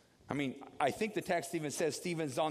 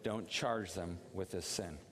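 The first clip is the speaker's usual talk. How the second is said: quiet group prayer; 5 semitones lower, 4 dB quieter, slower than usual. Shown as a demonstration. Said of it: "one, two, three".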